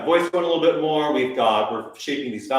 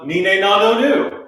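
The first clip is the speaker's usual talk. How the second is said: lively ni ne na no nu; animated vowel talk; 7 semitones higher, 9 dB louder than usual. Shown as a demonstration. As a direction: speak the vowels like an excited conversation. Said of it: "let's have a little conversation".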